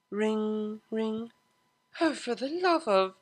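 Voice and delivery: high, sharp exasperated snap; annoyed at the phone interrupting, hissing; irritated hiss. A narrator's reading. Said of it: "hissed Octavia".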